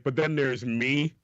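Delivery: high, frantic excuse-making storyteller voice; squeaky manic comic telling a wild excuse; Kevin Hart impression. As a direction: pitch way up and rant like a panicked late worker. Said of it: "Kevin Hart has one of, like, the best, like, comedy bits".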